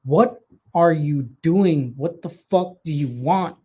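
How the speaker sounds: slow, half-hearted groggy anger at the intruder; mildly mock angry. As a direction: drag it out, annoyed and sleepy. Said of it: "at this point, I get mad".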